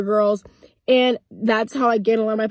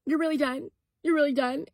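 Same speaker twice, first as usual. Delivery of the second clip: high, soft imitation of a crying girlfriend; mock-tearful, quiet question; retold tearful pleading; 4 semitones higher, 6 dB quieter than usual. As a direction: plead it small and high, mimicking her tears. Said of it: "she starts fucking crying".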